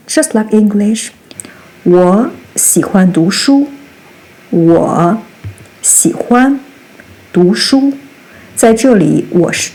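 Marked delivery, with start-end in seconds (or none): 1.8-7.9 轻声耳语; whispered example. Shown as a demonstration. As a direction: breathe the example sentence out. Example sentence read as demo.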